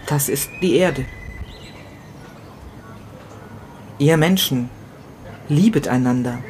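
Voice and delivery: grieving first-person monologue, read with pauses; dramatic story reading. A narrator's reading. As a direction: read it like a widower talking to himself.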